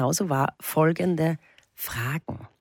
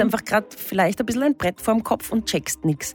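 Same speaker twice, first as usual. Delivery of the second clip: mock solemn horoscope read over music. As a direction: deliver the absurd horoscope like a serious astrologer. Reads the horoscope machine's result.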